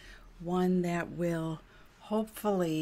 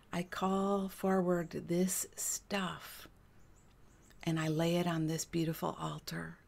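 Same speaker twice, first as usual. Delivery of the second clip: guided prayer meditation. Real, not acted. Healer lays stuck stuff on the altar, guided prayer.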